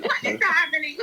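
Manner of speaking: high squeal through laughter; helpless laughter. Real, not acted. Host baffled at the derailed conversation, laughing helplessly. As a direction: squeak it out, nearly crying with laughs. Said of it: "I can't stop laughing".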